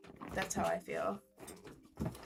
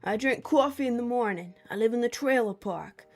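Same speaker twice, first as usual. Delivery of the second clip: exaggerated Southern twang, pitched up; Southern accent; 4 semitones higher, 3 dB louder than usual. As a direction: play a hammed-up Southern truck driver. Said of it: "Nope, that's a Southern accent".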